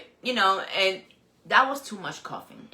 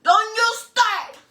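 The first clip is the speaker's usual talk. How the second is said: high, loud, slow warning; mock warning; 10 semitones higher, 5 dB louder, much slower than usual. Warning her coughing friend, high and slow. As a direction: draw it out as a scolding.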